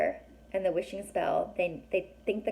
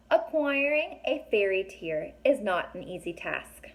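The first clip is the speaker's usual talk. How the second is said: journal reading. A narrator's reading. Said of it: "the font changes".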